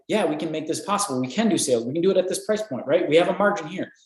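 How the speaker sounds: mildly upbeat acted quote, lifting in pitch; renewed enthusiasm. Company hearing back from buyers, mildly enthusiastic again. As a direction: voice a company regaining confidence. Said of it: "Enthusiasm, excitement starts coming back up".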